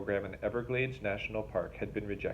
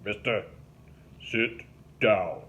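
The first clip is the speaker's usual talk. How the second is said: snapping; 4 dB louder, slower than usual. A narrator's reading. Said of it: "Link snapped at Mickey".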